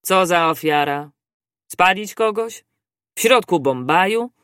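mildly amazed, separate incredulous questions; astonished questioning. A narrator's reading. Judge questions a talk of human sacrifice, astonished. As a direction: question it in disbelief. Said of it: "a sędzia spytał zdziwiony".

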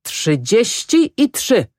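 high, slow tearful insistence; acted drunken weeping, drawn out; sobbing. A narrator's reading. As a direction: wail the price as if sobbing. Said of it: "szlochał Grochowski".

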